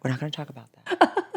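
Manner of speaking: a hushed, whispered plea to stop; imitating a wife hushing her husband on the couch. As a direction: hiss it low so nobody hears. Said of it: "she's looking down".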